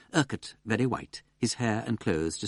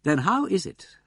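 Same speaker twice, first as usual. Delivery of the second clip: cool menace; 8 semitones higher, 6 dB louder, slower than usual. A narrator's reading. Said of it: "asked Wimsey coolly, but with something menacing".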